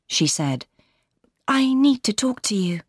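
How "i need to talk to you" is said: put-on higher, gentle young woman's voice; Laura's voice. A narrator's reading. Laura greeting her sister warmly, higher voice. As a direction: lift into the young bride's voice.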